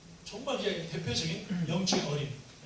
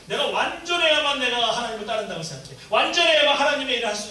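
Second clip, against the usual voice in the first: insistent; 6 semitones higher, 11 dB louder than usual. Retold or imitated. Perfectionist's inner voice.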